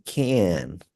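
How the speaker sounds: "can" full and falling at the end; final can. Shown as a demonstration. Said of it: "when you finish with can, you say".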